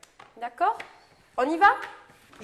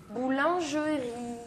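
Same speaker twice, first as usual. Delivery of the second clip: "Boulangerie" said slowly with a long final I; final sound drawn out; slower than usual. Shown as a demonstration. Teacher showing a pupil the final sound, "Boulangerie" drawn out. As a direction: stretch "Boulangerie" so the last sound stands out. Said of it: "qu'est-ce qu'on entend à la fin?".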